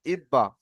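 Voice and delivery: ibba with the b sounded twice; doubled b. Shown as a demonstration. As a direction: join ib to ba with a doubled b. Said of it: "সেই অক্ষরটিকে আমরা দুবার পড়ব".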